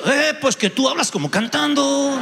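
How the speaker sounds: put-on Mexican accent. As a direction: mimic a Mexican friend teasing, lightly. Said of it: "venía un mexicano y me decía". (acento mexicano imitado, ligero y cantadito)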